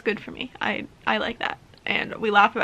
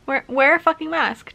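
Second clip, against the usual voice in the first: louder, higher exasperated outburst; frustrated snap, higher and louder; 4 semitones higher, 6 dB louder than usual. Real, not acted. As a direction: vent the frustration at everyone. Frustrated rant about covid.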